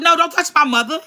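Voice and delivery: high-pitched indignant warning; mad. Retold or imitated. Daughter warning dad off her mother, mad. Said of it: "We was all mad".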